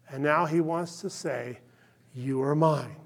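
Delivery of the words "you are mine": soft, breathy whisper of mine; whispered tender claim. Acted. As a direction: whisper it like a secret promise. God's voice quoted, whispered.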